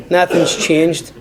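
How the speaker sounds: "Nothing's changed" slowed right down and weighted; slow emphatic repeat. Real, not acted. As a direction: drag out "Nothing's changed" heavily to drive it home.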